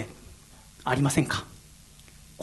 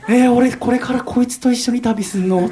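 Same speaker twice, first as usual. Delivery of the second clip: loud, high groaning question with a laugh; laughing dismay; 8 semitones higher, 6 dB louder than usual. Retold or imitated. Dreading a trip with the Kansai guy, loud laughing dismay. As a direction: whine in comic horror.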